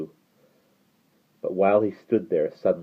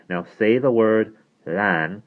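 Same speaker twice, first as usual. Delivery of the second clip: slow; 4 semitones higher, slower than usual. Shown as a demonstration. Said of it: "give it a bit of a blow".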